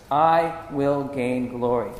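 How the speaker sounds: slow, each word given weight; slow emphatic repeat. Shown as a demonstration. Preacher repeats God's promise from Exodus, slow and emphatic. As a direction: draw the declaration out deliberately.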